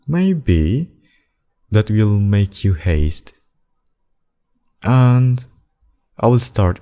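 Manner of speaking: high, drawn-out, swooping taunt; taunting threat. Acted. Demon threatening killings to force a choice, taunting threat. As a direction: toy with them slowly, pitch up high.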